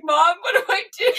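high, loud, rushed mock panic; retold freak-out, half laughing; panicked brother imitation. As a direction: imitate someone frantically asking mom for help. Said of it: "just, like, losing his mind".

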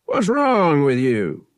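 loud, slow, irritated demand; gruff demand. A narrator's reading. Captain to a swaying sick boy, gruff demand. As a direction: shout it out, high and drawn out.

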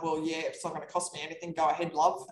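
lightly done Aussie agent, quick and casual; a hint of an Aussie realtor brushing it off; mock Aussie accent. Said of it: "what they would say in their Aussie accent".

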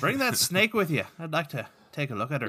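high-starting put-on Irish brogue; lilting mock-Irish accent; Patrick's Irish accent. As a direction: call out the request in amateur Irish. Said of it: "Speaking of bad accents".

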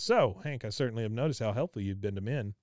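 pointed opener, then quick faux praise; lightly mocked passive-aggressive remark. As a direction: imitate a wife's loaded compliment. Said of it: "with that passive-aggressive shit that she does".

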